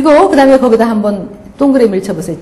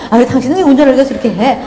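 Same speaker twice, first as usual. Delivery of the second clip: mock nagging, fast; faster than usual. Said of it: "남편에게 자꾸 야단치지 않으세요".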